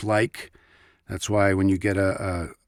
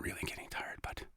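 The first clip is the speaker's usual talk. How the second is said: whisper; 20 dB quieter, faster than usual. Real, not acted. Playful aside after fake fatigue.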